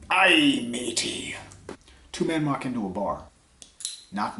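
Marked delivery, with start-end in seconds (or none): 0.1-1.3 whispered pirate "aye, matey". Acted. Old pirate greets his party, whispered pirate voice. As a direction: breathe it like an old sea dog.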